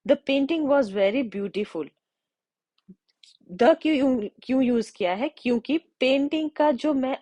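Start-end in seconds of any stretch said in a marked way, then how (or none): 0.1-1.9 slow example. Shown as a demonstration. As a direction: read very slowly, word by word. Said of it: "next अगर मैं बोलूँ". (बहुत धीमे उदाहरण वाक्य)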